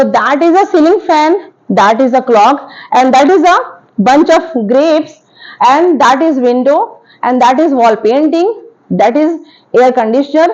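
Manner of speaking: very slow, drawn-out words; slow teaching examples. Shown as a demonstration. Teacher naming far objects in the room, very slow. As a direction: point to far objects one by one, slowly. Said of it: "अगर मुझे use करना है that का".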